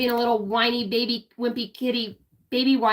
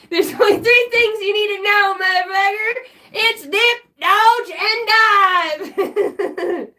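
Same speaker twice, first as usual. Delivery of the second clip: mock coach rant; 6 semitones higher, 4 dB louder than usual. Mock coaching a dodgeball rule.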